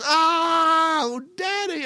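mock kids howling with laughter; imitated shrieking kids. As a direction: scream with laughter at dad.

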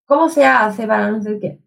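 put-on Spanish phrase with an Italian accent. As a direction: quote the Spanish adviser, but with an Italian lilt. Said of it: "falando espanhol com sotaque italiano". (espanhol com sotaque italiano)

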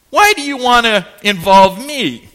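retold prophet copping an attitude. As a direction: push back as if insulted to be asked. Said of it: "Can you hear the attitude here?".

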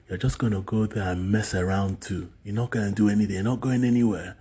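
loud, scolding father's voice; father's stern refusal. Retold or imitated. Retelling dad refusing money for the exam, loud and scolding. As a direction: bark it out like an angry dad refusing.

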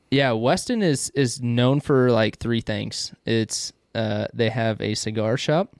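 talking around a pipe stem; pipe in mouth. Real, not acted. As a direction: speak with a pipe clenched in teeth. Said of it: "I wanna talk really weird".

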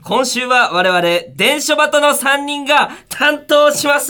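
high, loud announcer delivery; radio show opener. Acted. Host opening a student comedians' radio show, energetic announcer call. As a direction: belt out the programme introduction.

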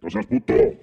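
high, loud mocking echo of No seas puto; mocking squeaky echo. Mimicking the friend's Spanish jab, high and mocking. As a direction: parrot it back in a squeaky voice.

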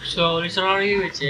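mock South Jakarta slang; Jaksel slang. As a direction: put on Jaksel valley girl talk. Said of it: "pakai bahasa Jaksel gitu aja ya".

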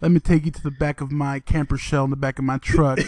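low, lightly voiced come-on; imitated pickup line. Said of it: "just be like".

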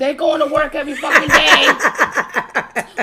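loud laughing rant, slow and stretched; laughing shout. Real, not acted. Mocking the grown man who sleeps till two, laughing shout.

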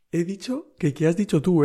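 telling a friend the silly exchange, giggling; laughing retelling. Retold or imitated. Recounting the misunderstanding to viewers, laughing. Repeating the quote while laughing.

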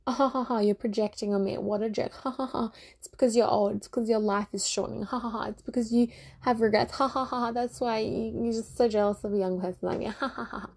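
mocking fake laughter between jabs; knowing laugh. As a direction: laugh it off smugly at them. Taunting imagined critics with laughter.

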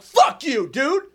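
telling the guy off again in the retelling; reliving getting up in his face; retold angry confrontation. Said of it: "I'm like".

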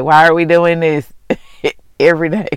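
a lightly voiced whiny eyeball, half laughing; mock-weary protest from her own eyes; eyeballs complaining. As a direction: let her tired eyeballs grumble, laughing a little. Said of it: "my eyeballs be like".

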